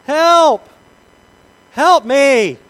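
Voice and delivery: high desperate yell for help; shouting for help. Acted. Man hanging off a cliff shouts for help, desperate yell. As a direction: cry out for rescue from the cliff.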